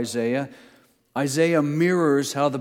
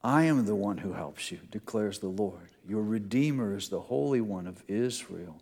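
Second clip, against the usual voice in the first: tender; 3 semitones lower than usual. Acted. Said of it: "That's what he's emphasizing".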